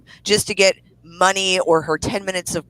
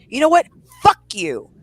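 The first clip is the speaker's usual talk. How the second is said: angry rant; 3 semitones higher than usual. Real, not acted. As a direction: tear into her, really fed up. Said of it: "I had my mini rant".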